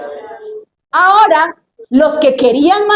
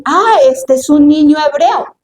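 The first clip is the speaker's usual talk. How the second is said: commanding princess; 3 semitones higher than usual. Acted. Pharaoh's daughter ordering a Hebrew baby drowned, mock imperious. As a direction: pronounce the sentence imperiously. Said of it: "ella decir".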